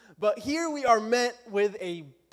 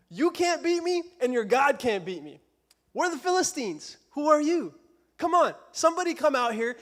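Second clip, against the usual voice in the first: lightly acted taunt, raised pitch; mocking taunt; 3 semitones higher than usual. Preacher as Goliath challenging the army, mocking. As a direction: goad them into a fight. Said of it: "he's mocking their God".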